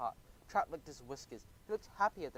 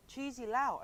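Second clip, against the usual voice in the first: high squeak; 10 semitones higher, 3 dB louder, slower than usual. A narrator's reading. Alone in the dark, frightened Geronimo squeaks her name higher. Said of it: "I squeaked".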